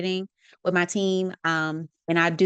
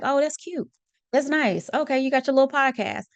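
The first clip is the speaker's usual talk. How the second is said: higher, patronising "that's cute" tone; condescending mock voice; 6 semitones higher than usual. Host mocks people who belittle her podcast, condescending. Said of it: "some people be like".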